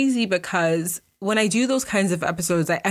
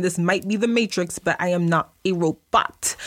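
Rapper-style delivery; sassy rap diva cadence. Real, not acted. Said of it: "why did I sound like a rapper".

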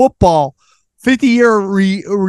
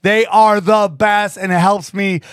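sponsor read; 3 semitones higher than usual. Acted. Host reading affiliate ads to listeners, upbeat ad read. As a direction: pitch the sponsors like a salesman.

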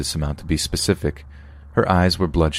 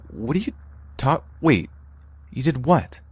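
stunned disbelief; 9 semitones higher than usual. Acted. Narrator stunned by confession.

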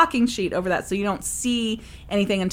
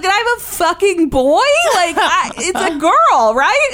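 high, loud, half-laughing panic; frantic, pleading for it to be a girl; panicked disbelief; 11 semitones higher, 7 dB louder than usual. Retold or imitated. Mother panics that she had a boy, high loud disbelief. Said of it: "I was like".

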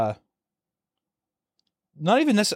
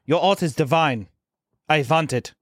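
mock German accent. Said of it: "I'm gonna say German".

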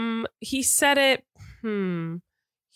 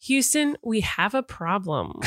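laughing through the line; slower than usual. Shown as a demonstration. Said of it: "give it what you think is happening".

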